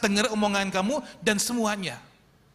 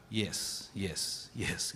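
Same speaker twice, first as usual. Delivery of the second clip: dismissive; 13 semitones lower, 12 dB quieter, much slower than usual. Retold or imitated. Parents dismissively brushing off.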